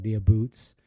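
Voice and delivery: ABOOTS with an oo vowel, Canadian style; Canadian pronunciation. Shown as a demonstration. Streamer showing the soft Canadian accent, "aboots" said with oo. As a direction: say "aboots" with oo in place of ow. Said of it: "we have, like, a soft Canadian accent".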